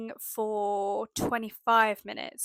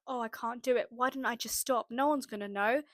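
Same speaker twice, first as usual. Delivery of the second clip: tempting inner voice. Retold or imitated. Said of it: "These thoughts kept coming up".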